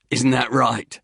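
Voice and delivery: calm the soldier down, Cockney style; placating Cockney hiker. Acted. Hiker calms the angry instructor in a Cockney voice. Lampshade to Goatee.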